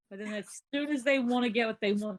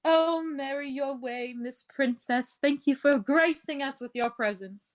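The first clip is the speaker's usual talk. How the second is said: sarcastic farewell. Acted. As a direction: draw it out with mock reverence. Mock farewell to departing rival.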